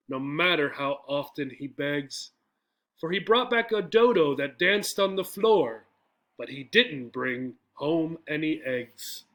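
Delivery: reading the poem aloud with a lilting rhythm for the class. Acted. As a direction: read it like a children's rhyme, bouncing the beat. Teacher reads poem aloud.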